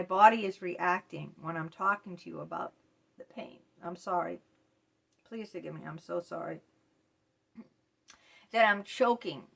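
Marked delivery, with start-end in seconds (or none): 3.2-6.6 soft, choked-up apology. Real, not acted. Apologising to viewers while reliving pain, choked up. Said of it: "literally choked up". 8.5-9.4 louder, effortful choked-up push. Real, not acted. Explaining the reaction to viewers, choked up. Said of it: "literally choking to get the words out".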